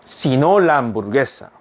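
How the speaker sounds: very slow, careful Spanish sentence; slow teacher read-aloud; slow model reading. Shown as a demonstration. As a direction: read it slowly so students can follow. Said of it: "한 번 더".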